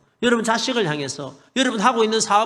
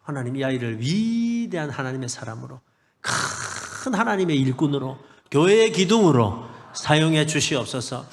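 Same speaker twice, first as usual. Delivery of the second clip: earnest prayer; 7 semitones lower than usual. Shown as a demonstration. Father praying for his son, slow earnest prayer. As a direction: pray each word slowly over your son. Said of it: "지금도 그렇게 기도합니다".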